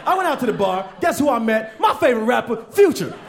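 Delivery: breathless about her night out; girlish gossip voice. Retold or imitated. Party girl telling a friend about her night, girlish gossip. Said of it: "It's like".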